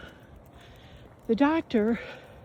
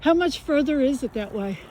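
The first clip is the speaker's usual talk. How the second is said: higher-pitched repeat for someone who missed it; calling out; 4 semitones higher, 3 dB louder than usual. Real, not acted. Walker repeating the question to a passer-by, calling out. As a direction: repeat the question so they catch it.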